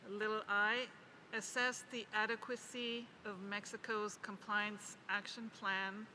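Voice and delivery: slowed, measured dictation with pauses between phrases; deliberate phrase-by-phrase reading. Real, not acted. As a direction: read it out slowly for note-takers. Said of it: "I will read it as slowly as I can".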